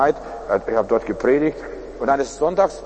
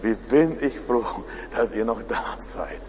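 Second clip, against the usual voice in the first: relieved desperate caller; 3 semitones lower, 5 dB quieter than usual. Retold or imitated. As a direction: imitate a caller overcome with relief. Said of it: "ganz verzweifelt".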